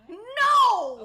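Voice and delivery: No! shouted high; high, loud no. Real, not acted. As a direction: reject it loudly, appalled. Asked if he was hot.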